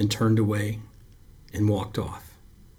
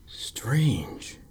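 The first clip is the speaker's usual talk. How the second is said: breathed in a whisper; soft whisper; 3 semitones higher, 3 dB quieter than usual. A narrator's reading. Lifeguard murmurs to the boy over the sack, whispering. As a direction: let it out barely voiced. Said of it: "he said softly".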